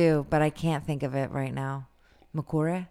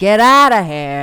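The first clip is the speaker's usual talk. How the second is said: loud disbelieving get outta here; loud stunned disbelief; shocked exclamation; 2 semitones higher, 13 dB louder than usual. Real, not acted. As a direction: blurt it out in shock. Shocked reaction to bee story.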